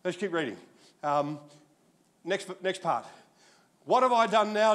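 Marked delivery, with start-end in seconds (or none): 3.8-4.7 indignant protest. A narrator's reading. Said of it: "David said".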